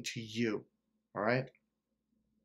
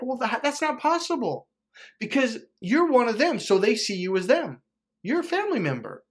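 high, loud dismissive family voice; mocking the family; 9 semitones higher, 3 dB louder than usual. Coach explains how his family sees him, mocking high voice. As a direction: mimic them scoffing at his goals.

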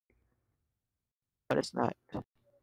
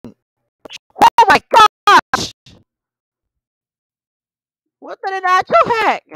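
stretched-out disbelief; 10 semitones higher, 7 dB louder, much slower than usual. Real, not acted. Getting wrecked in race.

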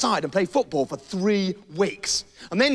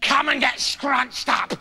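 coaxing witch voice; 4 semitones higher than usual. Acted. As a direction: lure the bird in, sing-song.

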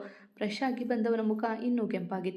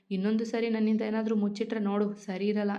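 usual speaking voice

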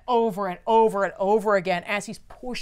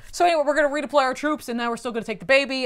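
louder, fast, breezy villain voice; 3 semitones higher, 4 dB louder than usual. Retold or imitated. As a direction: rattle off the threat casually. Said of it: "Desaad's like".

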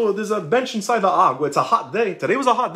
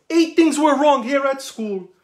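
retold yell; 6 semitones higher, slower than usual. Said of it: "I yelled".

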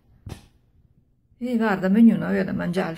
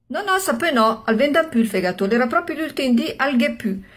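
much higher, louder protest; excited excuse; 6 semitones higher, 5 dB louder than usual. Acted. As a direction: rush out the excuse, pitched up. Husband's nervous hurried excuse.

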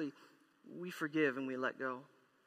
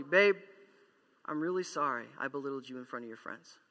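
sincere apology; 4 semitones lower than usual. Retold or imitated. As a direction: own it gently, earnestly. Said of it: "That's an apology".

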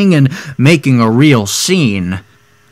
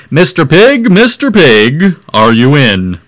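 calling out; 3 dB louder than usual. Retold or imitated. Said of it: "I called".

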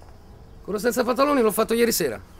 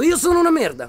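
loud, demanding shout; louder; 6 semitones higher, 6 dB louder than usual. Acted. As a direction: bark it for him to copy. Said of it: "Dillo più forte".

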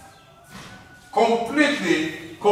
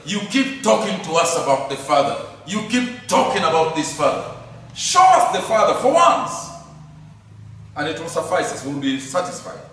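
mock exasperation; faster than usual. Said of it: "Philip is so exasperated".

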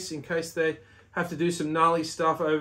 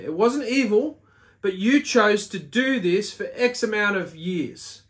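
higher, louder stern tallying judge; the judging court; 4 semitones higher, 4 dB louder than usual. Acted. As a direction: read out the verdict like a stern court.

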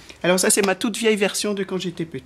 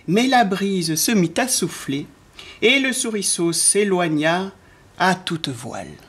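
put-on children's story narration. A narrator's reading. Narrator ending the tale as the mouse sails off, storytelling. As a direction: bring the picture book gently to a close.

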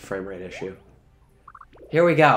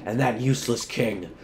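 slow theatrical villain menace. Acted. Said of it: "It's Edna from The Incredibles".

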